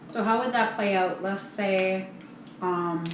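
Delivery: talking around a mouthful of ice. Real, not acted. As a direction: speak with ice in your mouth. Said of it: "sorry, I got ice in my mouth".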